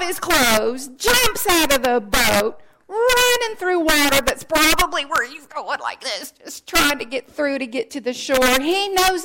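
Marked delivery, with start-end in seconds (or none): none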